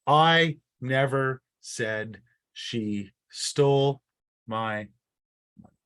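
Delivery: slow, even reading of the sentence; sentence read out slowly. Shown as a demonstration. Teacher slowly reading the test sentence to the class. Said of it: "there are seven words here".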